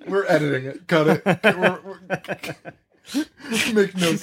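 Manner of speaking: mock studio executive.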